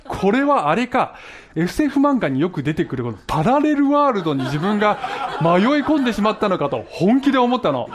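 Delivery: real laughter running through the words; laughing while telling. Real, not acted. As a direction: tell it while cracking up. Laughing while recalling the fear. (笑いながら語る)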